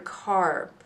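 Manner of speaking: "car" with a strong, drawn-out pirate "arr" sound; "car" sounded as an R-controlled vowel, pirate style. Shown as a demonstration. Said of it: "Sounds like that pirate sound of R".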